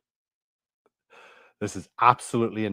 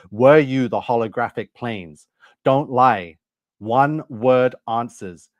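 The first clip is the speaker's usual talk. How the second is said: louder, sharp demand for the truth; demanding interrogation; 6 dB louder, slower than usual. Retold or imitated. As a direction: press the machine hard with louder orders. Retold interrogation of the AI.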